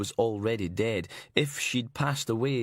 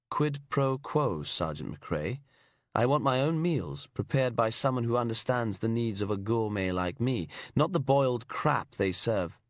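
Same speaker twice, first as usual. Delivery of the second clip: fake English accent. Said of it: "fake English accent".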